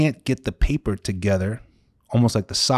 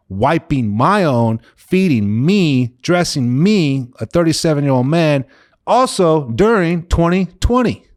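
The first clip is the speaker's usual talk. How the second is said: retold frustrated yelling. Injured son ranting at God about needing Mom, retold yelling rising. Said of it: "I'm yelling at the top of my lungs".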